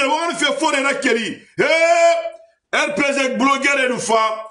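rally speaker at full force; shouted oratory. Acted. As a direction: call the name out to the crowd. Political speech, heated.

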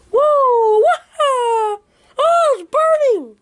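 high yelps, burned by the light; scream of pain. Acted. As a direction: yelp as if the light burns.

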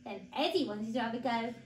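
put-on animated read-aloud for small children; story narration. A narrator's reading. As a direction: tell it clearly and expressively to little ones.

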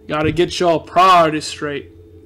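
slow, lightly Southern grandmother imitation; a hint of a Southern grandma drawing it out. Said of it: "'Cause she's very Southern".

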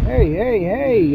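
sharp high "hey" yelled at a teammate; loud protest. Real, not acted. Teammate shot at him.

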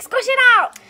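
imitating excited shout. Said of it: "Jessica saying".

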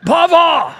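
high, loud mock child's shout; kid's yell. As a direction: yell for grandpa like an excited kid. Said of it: "you don't have to yell".

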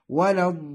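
"الضالين" with dad from the tongue's side and very long aa; six-count madd. Shown as a demonstration. Teacher gives the correct reading, "الضالين" with very long aa. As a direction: hold the aa of "الضالين" long, then double the lam. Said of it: "فالصحيح".

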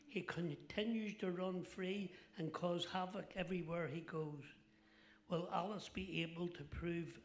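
lightly dramatic movie-trailer voice; trailer read. Acted. Comic introducing the next act as a film trailer.

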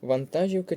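Вантажівка with stress on an earlier syllable; stress variant. Shown as a demonstration. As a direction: offer Вантажівка as one stress option. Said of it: "Оберіть правильний варіант наголошення слова".

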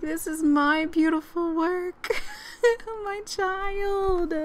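high, cooing proud-mom voice; doting new mother. Acted. Player voicing Aspen with her baby, doting. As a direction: play a mother adoring her newborn. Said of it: "She's like".

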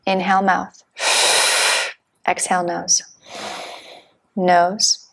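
terse, evenly spaced breathing instructions; measured meditation-teacher cueing; guided breathwork cues. Real, not acted. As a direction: count the breath in and out with single-word cues, long pauses between.

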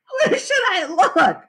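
put-on high, drawn-out girl's whine; tearful whine. A narrator's reading. Sheila ordered to hunt for teeth, high tearful whine. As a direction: whine it through tears. Crying girl told to find teeth.

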